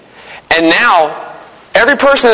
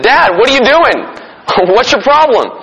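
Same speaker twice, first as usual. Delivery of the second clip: higher-pitched, lightly acted panicked girl; freaking-out daughter; 6 semitones higher than usual. Daughter to father in the car with a bee, mock freak-out. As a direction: protest to dad in mild mock alarm. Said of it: "she starts freaking out".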